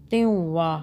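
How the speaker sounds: त्युवा with a slight nasal hum before wa; light noon sound. Shown as a demonstration. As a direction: let a faint n colour the middle of त्युवा. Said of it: "हल्की सी नून की sound आएगी".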